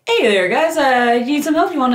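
hammed-up friendly Canadian. Canadian offering help to an alien craft, mock Canadian accent. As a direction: put on a helpful Canadian accent. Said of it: "Is there anything more Canadian than".

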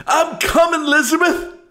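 very high, loud strained cry; dying old creature. Acted. Creature clutches his chest, crying out high and loud. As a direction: wail it out in mock heart-attack agony. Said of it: "clutches his chest and he goes".

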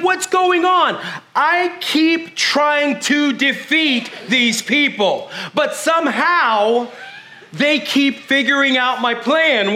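frustrated king. Retold or imitated. Syrian king complaining to his men, exasperated. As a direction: play the Syrian king fed up with failing. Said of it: "he's like".

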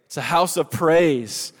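slow, loud repeated call. Shown as a demonstration. Preacher pushing a sleepy congregation to respond loudly. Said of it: "We're starting to wake up here".

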